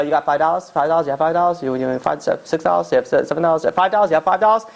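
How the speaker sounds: lightly acted panhandler, repeating himself fast; a hint of a twitchy beggar; street addict begging. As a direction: pester them for cash in jittery bursts. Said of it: "So he goes to you, and he's like".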